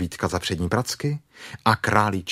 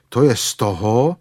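louder, put-out grumble; grumbling; 3 semitones higher, 5 dB louder than usual. Acted. Stuck bear blames the small doorway, grumbling. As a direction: grumble it with some force. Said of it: "bručel Pů".

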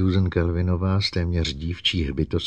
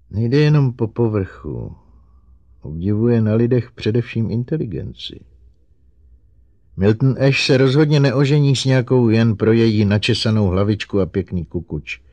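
high, raised, pleading robot voice; high-pitched, eager-to-help robot; earnest robot; 6 semitones higher, 7 dB louder than usual. Acted. Narrator voices Herbie the robot.

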